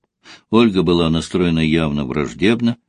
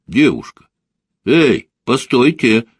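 mildly raised voice hailing someone; calling out; 5 semitones higher, 4 dB louder than usual. A narrator's reading. Man calls after the woman walking off, calling out. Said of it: "крикнул Костя".

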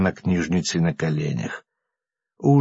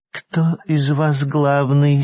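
slow, sultry, seductive question; languid voice; 5 semitones higher, 4 dB louder, much slower than usual. A narrator's reading. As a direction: purr it out slowly, seductively. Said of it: "спросила она томным голосом".

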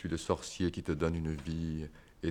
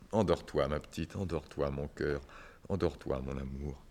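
tender lullaby; 2 semitones lower than usual. Acted. Berce la mourante.

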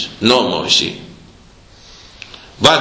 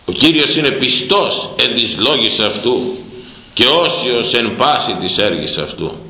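normal talking voice

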